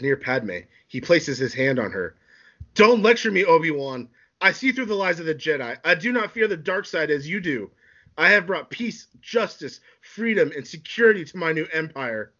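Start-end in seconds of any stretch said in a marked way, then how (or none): 2.7-12.3 put-on high, declaiming young Sith; defiant Anakin. Anakin defies Obi-Wan and boasts of his empire, high declaiming. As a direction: proclaim it proudly, pitched up.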